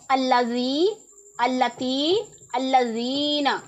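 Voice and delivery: अल्लज़ी, अल्लती, अल्लज़ीना read singly with long drawn-out ee; अल्लज़ी, अल्लती, अल्लज़ीना with doubled l and lengthened final vowels; reading demonstration. Shown as a demonstration. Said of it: "पढ़ के बताया".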